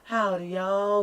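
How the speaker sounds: friendly Southern drawl greeting. Shown as a demonstration. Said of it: "we have that whole".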